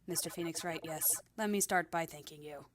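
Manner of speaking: flat, synthetic disguised voice; robotic voice. Shown as a demonstration. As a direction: voice modulator robot voice. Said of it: "I was doing, like, the robotic voice".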